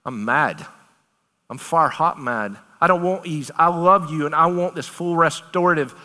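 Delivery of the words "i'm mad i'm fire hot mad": God speaking angrily. Acted. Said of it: "he says he's angry about it".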